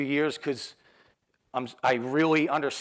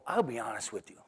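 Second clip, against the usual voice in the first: soft, lower retold confession; level with him softly, pitched down; quiet candor; 4 semitones lower, 8 dB quieter than usual. Student to guidance counselor about quitting school, quiet candor.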